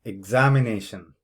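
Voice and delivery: examination with ZA brought out; syllable stress demo. Shown as a demonstration. Teacher models the word, examination stressed on ZA. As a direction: lean on ZA in examination, falling at the end. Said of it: "where you need to stress within the word".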